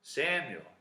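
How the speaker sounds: name called out, falling at the end; mysterious calling voice. Acted. Voice calling sleeping Samuel at night, lightly acted call. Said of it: "then he hears a voice".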